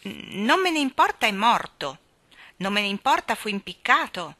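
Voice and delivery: taunting singsong echo of her words; mocking. Nanny mocking sulky Jane, taunting. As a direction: throw her words back, teasing. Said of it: "la schernì Mary Poppins".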